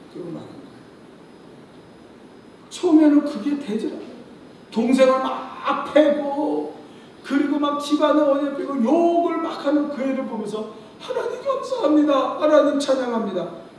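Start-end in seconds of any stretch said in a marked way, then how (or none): 2.7-13.7 high, laughing mock prayer; laughing retelling. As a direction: laugh at how hopeless it sounds. Mocking forced thanks, laughing. (웃으며 흉내 내는 기도)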